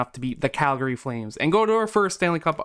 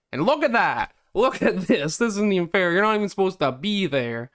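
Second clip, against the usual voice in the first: higher-pitched, indignant outburst; indignant protest; 5 semitones higher than usual. Real, not acted. Gamer fuming at the rival team's lineup, indignant protest. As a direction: protest it like a cheated player.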